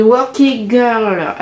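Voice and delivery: anglais appuyé à la française, lent; exaggerated English accent, drawn out slowly. Shown as a demonstration. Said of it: "avec mon super accent anglais". (accent anglais surjoué)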